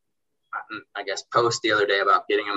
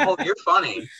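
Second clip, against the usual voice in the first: says it through a chuckle, pitched up; amused laugh; 8 semitones higher than usual. Retold or imitated. Mark, amused by the sarcastic washer, laughing. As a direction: laugh it off, tickled by the joke.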